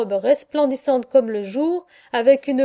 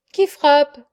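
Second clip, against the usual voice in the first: appel sonore, légèrement rauque et plaintif; voix rauque et dolente; 2 semitones higher, 7 dB louder than usual. A narrator's reading. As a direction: demander fort, avec une pointe de plainte. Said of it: "me fait une voix rauque et dolente". (voix un peu rauque et dolente)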